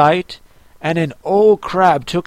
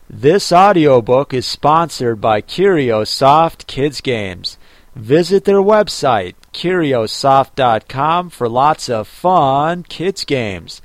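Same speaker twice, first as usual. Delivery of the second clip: ad read; 3 semitones lower, slower than usual. Acted. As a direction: clear sponsor announcement. Sponsor ad read.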